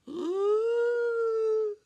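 loud high in-breath; wolf gathering breath to blow; huge huffing gasp. A narrator's reading. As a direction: suck in a lungful.

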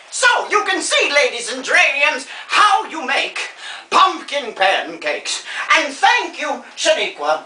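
grand television-hostess sign-off; theatrical old star. Acted. Old star closing her cooking show, theatrically gracious. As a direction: present it grandly to the audience.

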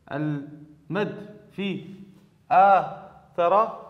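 very slow, each word drawn out; slow repeated question. Shown as a demonstration. Teacher re-asking the class, slow and drawn out. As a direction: repeat it slowly so pupils follow.

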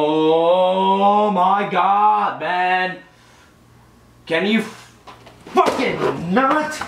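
very slow, drawn-out exasperation; mad. Real, not acted. Player at the game after another loss, mad. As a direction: drag the words out in pent-up fury. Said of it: "You mad?".

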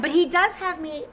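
normal talking voice

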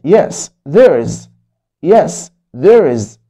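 Yes there is read very slowly, falling; slow story reading. Acted. Teacher reading the mother's reply slowly to kids. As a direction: answer it slowly for young learners.

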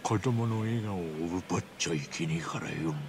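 talking with a mouth full of pudding; words pushed round a mouthful; stuffed cheeks. Real, not acted. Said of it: "プリン頬張りながら言われてもね". (プリンを頬張りながらしゃべる)

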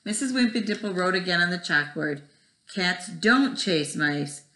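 put-on lively storybook read-aloud to kids; reading to children. Teacher reading Splat the Cat to her first graders, animated. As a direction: tell it like bedtime for a first grade class. Reads picture book to class.

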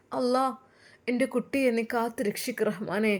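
a mother puzzled and sad; grieving mother. Acted.

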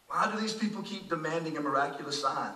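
low, hushed exasperation; sighing, voiced as Jesus. Jesus to testing Pharisees demanding a sign, quietly exasperated. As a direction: drop to a soft, weary question. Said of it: "He sighed deeply in his spirit and said".

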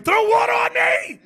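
high, loud hammed-up scream for water; mock desperate yell. Retelling a worn-out brother at training, mock yell. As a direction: play the exhausted brother begging to be doused.

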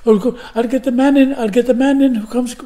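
put-on hurried Irish accent, calling for help; imitated Irish woman in a fluster. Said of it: "She had an Irish accent".

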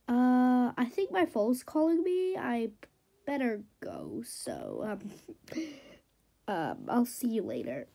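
nervous, hesitant excuse; scared. Acted. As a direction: trail off quietly, looking for a way out. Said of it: "I guess she's scared of me".

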